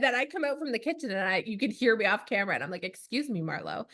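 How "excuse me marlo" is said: 1 stern mom. Retold or imitated. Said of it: "that's what I say".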